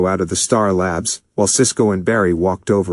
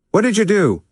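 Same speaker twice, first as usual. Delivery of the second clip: very high, stressed accusing question; angry demand; 12 semitones higher than usual. A narrator's reading. Naruto demanding what they did, very high. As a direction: demand an answer, outraged.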